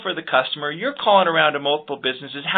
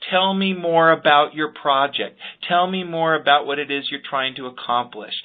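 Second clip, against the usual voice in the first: interested question. Shown as a demonstration. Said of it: "the best question to ask".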